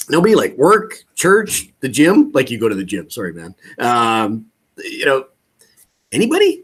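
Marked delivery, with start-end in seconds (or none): 3.8-6.6 pleading prod. Acted. Coach playing caller fishing for a referral, hopeful. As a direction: nudge him for just one name. Coach prodding in acted script.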